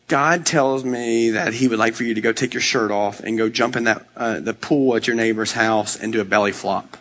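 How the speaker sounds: low, matter-of-fact delivery of an absurd message; deadpan stranger. Acted. Some guy relaying God's odd request to the pastor, deadpan. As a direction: deliver it low, as if perfectly reasonable.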